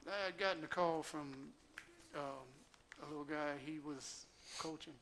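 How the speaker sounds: slightly wheezy, air through a loose tooth; wheezing a little on each phrase. Real, not acted. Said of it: "if I sound like I'm wheezing".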